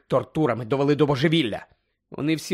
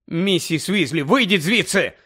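shouting; 3 semitones higher than usual. Acted. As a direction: shout at her to get out. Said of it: "крикнув Гаррі".

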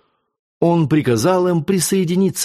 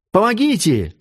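high-pitched call for help, only mildly raised; hopeful cry; 8 semitones higher than usual. A narrator's reading. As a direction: cry out with sudden new hope. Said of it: "опять закричала Кристина, оживлённая внезапной надеждой". (сдержанный крик с внезапной надеждой)

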